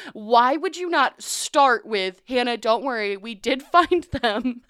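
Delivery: exasperated demand, dragged out; retelling how she yelled at her teacher; mock yell. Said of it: "I yelled at her".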